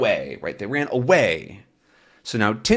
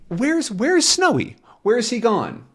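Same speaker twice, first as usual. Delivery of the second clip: searching voice; 11 semitones higher than usual. Acted. Tintin searching for Snowy.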